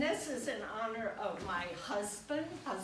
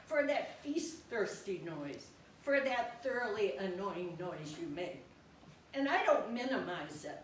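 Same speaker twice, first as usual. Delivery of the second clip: lively poem recital, phrase by phrase; poetry reading. Acted. Poet to the guide dog about slurping, animated poetry reading. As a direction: recite it as verse addressed to the dog.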